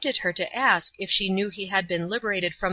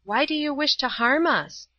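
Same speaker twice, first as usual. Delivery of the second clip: higher, loving appeal, said aloud; calm, compassionate; 7 semitones higher than usual. A narrator's reading. Old woman appeals to drunken brute, calmly and lovingly. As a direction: plead kindly, without fear. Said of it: "in such a calm, loving, and compassionate way".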